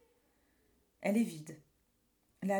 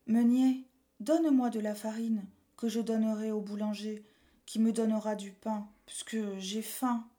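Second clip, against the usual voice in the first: urgent panting report; 4 dB louder than usual. Acted. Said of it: "Tout essoufflé, il dit".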